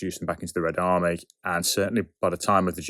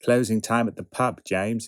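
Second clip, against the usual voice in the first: Sean Bean's strained attempt at posh; lightly put-on posh English voice; mock posh accent; 4 semitones higher than usual. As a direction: imitate a badly faked posh accent. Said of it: "trying to do a posh accent".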